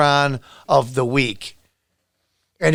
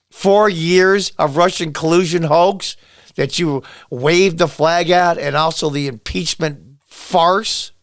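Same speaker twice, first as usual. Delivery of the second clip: slow, deliberate bitter listing; bitter emphasis; slower than usual. Real, not acted. Vlogger listing grievances at politician, slow bitter emphasis. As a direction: hammer each grievance slowly.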